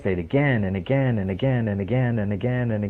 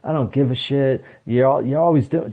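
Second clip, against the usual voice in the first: mock parents' argument; 4 semitones higher than usual. Parents arguing in the hall.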